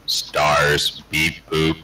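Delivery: stiff beeping robot voice. Pretend. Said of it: "say stars in the robot voice".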